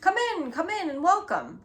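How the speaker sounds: a jolly uncle calling guests in; loud, cheery call. A narrator's reading. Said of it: "called a loud, cheery voice".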